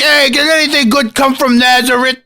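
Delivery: very high comic heckling voice; hammed-up high-pitched mock heckle; mocking Nathanael. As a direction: squeal the question in a silly high voice. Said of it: "he's like".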